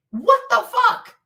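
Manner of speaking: high, loud, drawn-out exclamation; outraged disbelief. Real, not acted. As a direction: stretch it out high in sheer disbelief. Outraged reaction to skillet attack.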